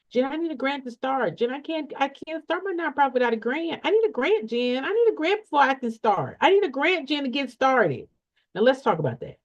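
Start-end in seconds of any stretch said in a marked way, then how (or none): 0.1-8.1 higher-pitched, insistent mock plea; pleading client. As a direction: voice a needy client pleading over and over. Acts out clients pleading for grant.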